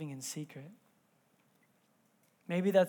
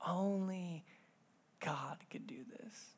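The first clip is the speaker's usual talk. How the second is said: whispered; 10 dB quieter, slower than usual. Shown as a demonstration. Pastor repeating his daughter's words to the congregation, hushed whisper. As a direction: breathe God could do this as a hushed whisper. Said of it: "repeats daughter's words softly".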